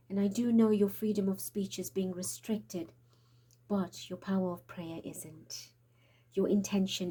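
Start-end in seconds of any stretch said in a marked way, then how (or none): 3.7-5.7 whispering. Real, not acted. Urging viewers to pray.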